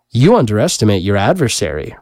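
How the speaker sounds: retorting. Acted. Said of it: "retorted Abishai".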